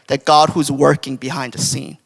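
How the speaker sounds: ordinary talk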